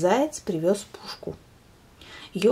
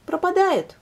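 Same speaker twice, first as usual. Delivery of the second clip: hare correcting; 11 semitones higher, 4 dB louder than usual. Acted. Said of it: "снова поправил заяц".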